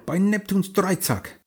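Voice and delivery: high, loud pirate captain war cry; rally the crew, bellowing and slow; old sailor battle cry. Acted. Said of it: "hallte ein Schlachtruf aus der Kehle ihres Kapitäns".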